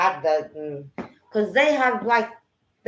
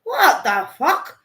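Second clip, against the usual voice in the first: slow, higher, louder disbelief; incredulous; 6 semitones higher, 5 dB louder, much slower than usual. Retold or imitated. Retelling seeing a strange figure, slow stunned disbelief. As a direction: drag out the shock of it. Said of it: "I was like".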